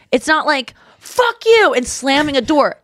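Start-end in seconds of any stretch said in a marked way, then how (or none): 1.0-1.7 high-pitched mock fight yell; mock angry outburst. Acting out what a real fight is, mock angry. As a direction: blurt it like someone storming out. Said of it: "That to me is a fight".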